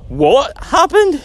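high, slow and drawn out in disbelief; stunned question. Retold or imitated. Telling the startled reaction to the hotel manager, stunned and slow. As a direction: let it hang, stunned. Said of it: "we were like".

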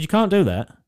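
firm parent, stress on can't; telling off his toddler, stressing can't. Retold or imitated. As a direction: lean on can't like a parent scolding. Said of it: "I said".

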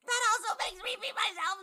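laughing. Acted. Being tickled, laughing.

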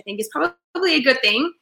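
stuffy nose from a cold; blocked nose, talking nasally. Real, not acted. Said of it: "sorry for my nasally voice".

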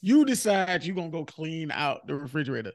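slow, punched-out scolding at first; angry girlfriend rant. Pretend. Girlfriend scolding man for cleaning out fridge, angry. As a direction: let the grievance build. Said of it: "the girl be like".

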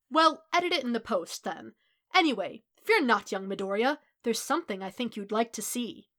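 loud, hearty hero voice; All Might. A narrator's reading. Hero waves off crew and reassures student, loud and grand. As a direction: brush it off, then boom reassurance.

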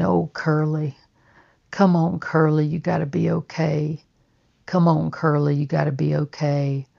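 a father begging his son, barely holding it together; tearful pleading. Retold or imitated. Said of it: "my dad started crying".

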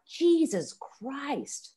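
high, long-drawn mock-American exclamation; stressed American. Guest imitates stressed Americans, mock exasperated American accent. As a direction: draw it right out, hammed-up stressed American. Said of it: "If they're stressed".

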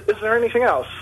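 usual speaking voice

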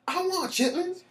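high hammed-up old man demand; Witherspoon voice. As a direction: repeat the bit in a high put-on voice. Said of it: "be like John Witherspoon".

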